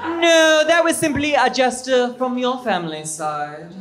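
Joan Collins outburst. Acted. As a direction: bark it like a soap queen. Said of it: "in the voice of Joan Collins from Dynasty".

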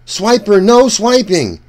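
firm call with stress on no; calling out to Swiper. Shown as a demonstration. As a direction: stop the fox with a firm call. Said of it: "We have to say".

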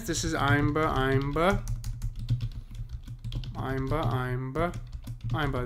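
Imber chanted as da-DUM, stress on the second beat; rhythmic beat counting; iamb beat. Shown as a demonstration. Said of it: "This is iambic pentameter".

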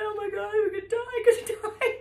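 high, fast, loud panicked squeal with a laugh; mock panic. Child panicking beside mum facing gang, high laughing squeal. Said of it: "I'm like".

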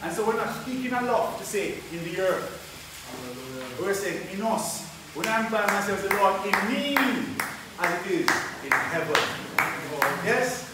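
loud, emphatic sermon delivery; impassioned preaching. Real, not acted. Preacher sharing his desire with brothers and sisters, impassioned preaching. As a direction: press it on the congregation with force.

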